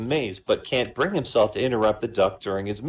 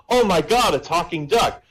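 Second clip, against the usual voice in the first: astonished barman; 6 semitones higher than usual. Acted. Barman gaping at a talking duck, mock astonished. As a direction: exclaim in put-on amazement, higher pitched.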